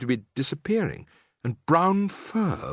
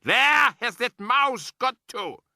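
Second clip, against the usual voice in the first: snapping; 12 semitones higher, slower than usual. A narrator's reading. Grand High Witch searching for the mouse, snapping. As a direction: snap the question.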